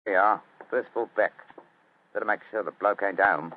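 understated Cockney workman; matter-of-fact Cockney; Cockney accent. Acted. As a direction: keep up a Cockney disguise. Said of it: "My Cockney accent doesn't compare with yours".

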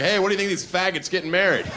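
quick, offhand and casual; chirpy coworker asking a casual question; breezy office question. Pretend. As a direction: toss it out like small talk at work. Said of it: "Just walk in and be like".

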